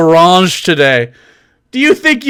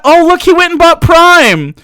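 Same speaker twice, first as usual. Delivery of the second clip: louder, higher, gleeful jeering; mocking laughter; 6 semitones higher, 4 dB louder than usual. Real, not acted. Streamer jeering at a troll who bought Prime. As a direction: laugh at him while shouting.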